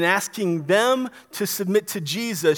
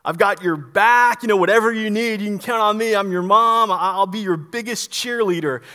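mock cheerleader mom, building louder; imitated supportive mom; 4 dB louder than usual. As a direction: play a mom eagerly rallying behind her son. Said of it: "this is not Mary saying".

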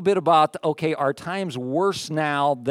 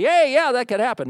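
sudden realization; 8 semitones higher, 3 dB louder than usual. Retold or imitated. Voicing people's reaction, suddenly convinced.

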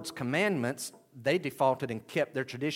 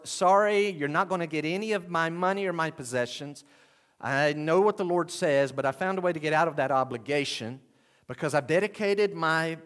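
higher-pitched mock refusal to parents; lightly acted self-justifying son, higher; excuse-making son; 4 semitones higher, 4 dB louder than usual. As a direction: play the son wriggling out of an obligation. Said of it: "here's the person talking to the father or mother".

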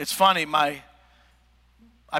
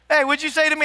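high-pitched mock confrontation; hammed-up high-voiced back-and-forth; confronted by mom; 6 semitones higher, 3 dB louder, faster than usual. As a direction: act out a heated exchange, pitch climbing high. Acts out confrontation with his mom.

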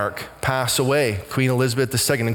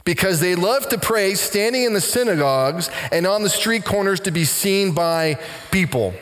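Jesus speaking; 5 semitones higher than usual. Retold or imitated. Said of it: "to hear Jesus say".

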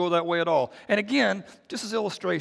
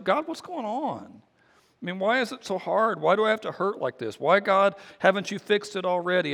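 frustrated prayer; 3 semitones higher than usual. Retold or imitated.

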